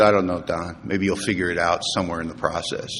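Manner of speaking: low, soft, unhurried reply; retold calm sponsor. Sponsor reassures a troubled man, low and calm. Sponsor answers him calmly.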